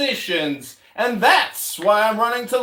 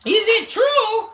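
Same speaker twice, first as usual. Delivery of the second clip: loud, high, slow mocking echo with a laugh; mocking shout; 10 semitones higher, 4 dB louder than usual. Real, not acted. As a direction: throw the question back, laughing.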